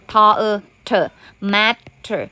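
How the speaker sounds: "ทอเออ เถอะ" blended, then a slow "matter"; sounding out. Shown as a demonstration. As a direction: stretch "matter" into two separate syllables. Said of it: "ทำไมถึงอ่านว่า matter".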